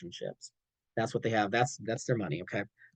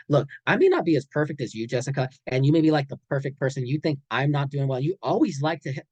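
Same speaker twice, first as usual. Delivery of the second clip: put-on critical boyfriend.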